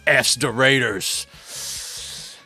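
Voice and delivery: lightly voiced Hunter S. Thompson musing on the Raiders; half-hearted Thompson rant, slowing on key phrases; Hunter S. Thompson impression. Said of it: "you know, Hunter S. Thompson".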